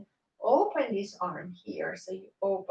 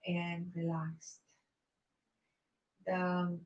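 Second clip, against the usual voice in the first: guided meditation; 4 dB quieter than usual. Acted. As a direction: ease them into rest gently. Guided relaxation at end of yoga.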